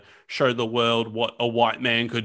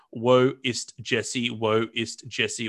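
mild mock yelling; much slower than usual. Retelling fans in Berlin calling for Owens, slow drawn-out mock chant. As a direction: stretch each word out like fans calling, but only half-hearted.

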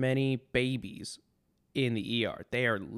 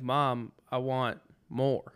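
put-on toddler asking mom; slower than usual. Toddler voiced in retold story.

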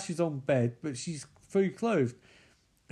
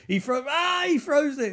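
higher and louder, caught up in it; excited outburst; 12 semitones higher, 4 dB louder than usual. Real, not acted. Watching Elliot throw the nightstand, excited and loud. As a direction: blurt it out as the throw happens.

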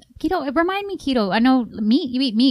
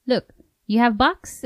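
put-on Asian doctor accent; 3 semitones higher than usual. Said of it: "he told her".

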